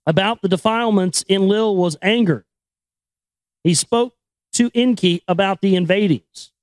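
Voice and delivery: put-on measured, solemn reading of an old chronicle; story narration. Host reading the Sumerian chronicle to listeners, solemn narration. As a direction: read it like an ancient epic. Reading ancient text aloud.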